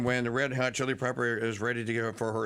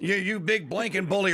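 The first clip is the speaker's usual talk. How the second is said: imitated screaming, higher pitch; 8 semitones higher, 3 dB louder than usual. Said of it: "and then you screaming".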